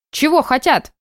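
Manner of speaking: put-on high old lady asking back; old woman voice. A narrator's reading. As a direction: echo it like a granny. Old neighbour repeats question.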